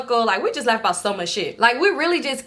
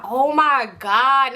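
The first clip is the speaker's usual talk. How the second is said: laughing; 3 semitones higher, much slower than usual. Retold or imitated. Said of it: "Now I'm just laughing".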